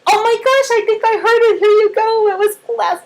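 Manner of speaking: very high, thrilled praise; cheering. Acted. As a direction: celebrate a partial attempt in a high voice. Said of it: "we cheer partial attempts".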